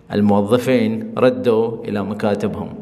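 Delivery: slow model sentence. Shown as a demonstration. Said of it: "لہجے کی وجہ سے میں آپ کو بتا رہا ہوں".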